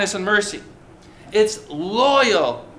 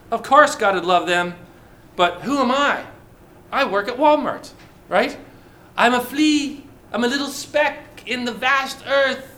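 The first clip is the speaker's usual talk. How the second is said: higher, mock-small voice of a doubter; humble self-doubt; 4 semitones higher than usual. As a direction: play the little guy who feels he doesn't measure up. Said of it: "Well, we might think".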